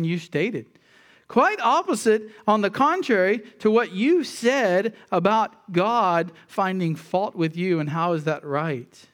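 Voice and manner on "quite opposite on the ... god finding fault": fervent preacher emphasis; emphatic. Acted. Rising emphatic restatement.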